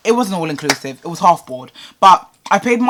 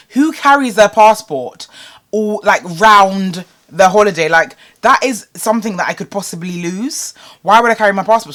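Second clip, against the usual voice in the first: louder, emphatic protest; retold indignation; 2 semitones higher, 5 dB louder than usual. Customer challenging bank worker over passport demand, mock indignant. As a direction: argue back in exasperated disbelief.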